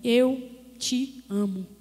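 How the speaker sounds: slow, low, weighty declaration; amoroso. Retold or imitated. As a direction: say each word slowly and tenderly. Retelling God's loving words to her. (voz amorosa, pausada e grave)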